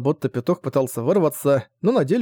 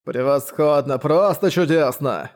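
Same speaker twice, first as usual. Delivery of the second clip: serious; slower than usual. Acted. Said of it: "серьёзно заявил он".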